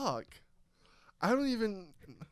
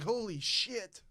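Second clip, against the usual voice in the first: mock amazed Irish crowd; 5 semitones higher, much slower than usual. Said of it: "They'd all be like".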